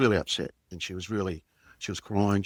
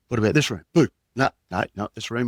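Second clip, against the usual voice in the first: playful game; 3 semitones higher, 6 dB louder than usual. Acted. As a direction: play hide-and-seek with a little boy. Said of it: "I was just making a bit of a joke".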